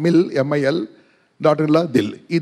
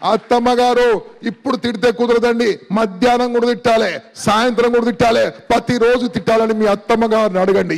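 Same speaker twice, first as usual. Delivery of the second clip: playful cheeky request; 4 semitones higher than usual. Pretend. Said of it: "ఇప్పుడు అనుకోవాలి".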